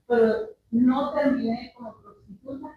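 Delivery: real tears as she says it; crying. Real, not acted. Woman testifying to the church, crying. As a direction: voice breaking into tears. Testifying about her painful past.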